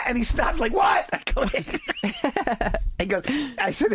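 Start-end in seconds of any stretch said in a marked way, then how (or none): 0.7-1.1 high startled what; surprised. Retold or imitated. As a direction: stop short, puzzled. Surprised friend stops short.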